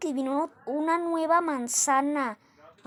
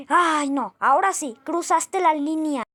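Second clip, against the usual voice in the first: offended; 5 dB louder than usual. Acted. Insulted, angry retort.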